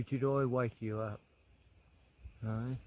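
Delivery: softly, almost under the breath; soft murmur. Real, not acted. To the dozing koala, a soft murmured question. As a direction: ask gently so as not to startle him. Gently asking a sleepy koala.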